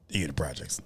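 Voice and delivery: hushed unvoiced aside; whisper. Real, not acted. To his friend about the projects, whispered. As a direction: drop to a sly whisper.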